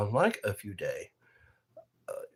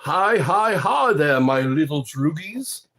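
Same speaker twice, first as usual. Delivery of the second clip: mock droog greeting; 4 semitones higher, 7 dB louder than usual. Clockwork Orange greeting voice.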